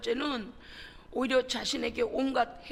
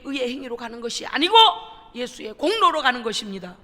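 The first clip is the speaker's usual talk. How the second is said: louder, rising pulpit preaching with fervor; preaching at full force; 2 semitones higher, 5 dB louder than usual. Acted. Pastor urging the congregation, preaching at full force. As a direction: drive the sermon home to the congregation.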